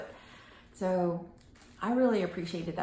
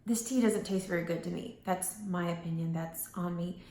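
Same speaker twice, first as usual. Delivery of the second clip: calm gentle phrasing; 3 dB quieter than usual. Shown as a demonstration. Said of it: "I could say".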